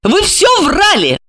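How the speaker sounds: high woman's voice, blurting it out. A narrator's reading. Alexandra accuses Gorokhov of lying, blurting high. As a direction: burst out with the accusation. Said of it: "Вдруг она выпалила".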